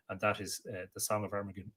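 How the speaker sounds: words stretched by a yawn. Real, not acted. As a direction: talk through a yawn. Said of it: "Excuse me for the yawning".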